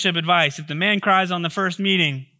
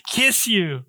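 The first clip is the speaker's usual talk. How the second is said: higher-pitched mock lovestruck outburst; overcome with emotion; 4 semitones higher than usual. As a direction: act lightly swept away by love. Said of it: "He was just overcome".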